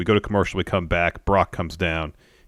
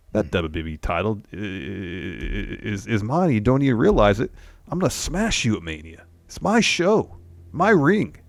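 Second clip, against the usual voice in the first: building intensity; 4 semitones higher than usual. Retold or imitated. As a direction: build from calm to a boastful, intimidating rant. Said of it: "is, is raising with everything".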